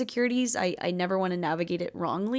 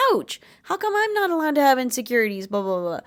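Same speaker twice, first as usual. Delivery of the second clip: higher, louder hurt protest; mock hurt ouch; 5 semitones higher, 4 dB louder than usual. To a friend who snapped at her, mock hurt whine. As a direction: whine it like you've been stung. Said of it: "And you're like".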